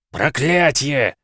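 протяжный вопль выше и громче; медленный отчаянный вой; взвыл с досады. A narrator's reading. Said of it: "взвыл координатор". (координатор воет от страшной новости)

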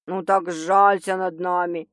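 playful, slow and low; cheerful. A narrator's reading. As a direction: coax her cheerfully. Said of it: "весело предложил Стас".

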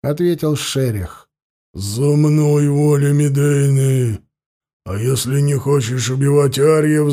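lightly voiced beastly defiance; werewolf. Werewolf Sherikh answers defiantly.

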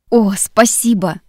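slow, loud delighted thanks; overjoyed exclamation; exclaiming thanks. Acted. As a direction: cry out in delight. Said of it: "воскликнул Конор".

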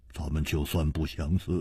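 low, soft, resigned murmur; hushed and low, giving in to fate; gentle consoling. Acted. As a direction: console softly, low in pitch. Gently consoling the weeping princess.

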